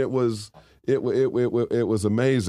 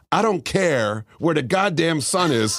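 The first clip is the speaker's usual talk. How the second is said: imitating his dad's slow, higher, laughing gruff insistence; mock-stubborn New Yorker refusing to budge; dad's mock-indignant retort; 5 semitones higher, slower than usual. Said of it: "And my father says".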